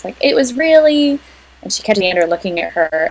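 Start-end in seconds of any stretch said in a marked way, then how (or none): 0.2-1.2 high-pitched, tickled imitation; amused retelling. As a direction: mimic gleeful gossip, pitched up, cut off mid-thought. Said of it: "Willow's kind of laughing while".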